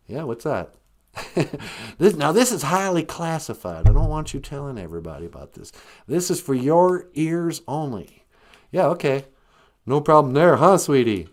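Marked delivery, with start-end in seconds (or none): 2.0-8.2 mock-important folksy politician voice; George W. Bush. Caller shares classified gossip, mildly hammed-up impression. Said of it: "is this George W. Bush?".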